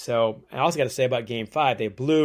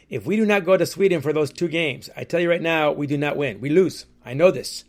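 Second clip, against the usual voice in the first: bad French Canadian accent; 3 semitones higher, 3 dB louder than usual. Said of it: "that's my very bad French Canadian accent".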